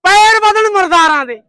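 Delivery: loud rhyming proclamation; declaimed dialogue. Shown as a demonstration. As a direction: boom it out like a film dialogue. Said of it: "ਇਹਨਾਂ ਦੇ dialogue ਨਾ ਛੱਡ ਦੇ ਇੱਕ".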